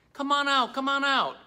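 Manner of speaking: high, playful sing-out call; repeated high-pitched coaxing; calling out coaxingly. Pretend. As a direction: call shy little creatures out to play. Calling hidden puppet birds out.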